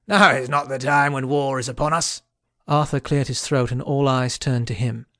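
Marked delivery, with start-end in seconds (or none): 0.1-2.2 protesting Gawain. Acted. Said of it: "Gawain interjected in protest".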